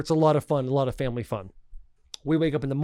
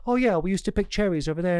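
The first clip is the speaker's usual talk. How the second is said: put-on English accent; 3 semitones higher than usual. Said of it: "I don't know why she's an English accent".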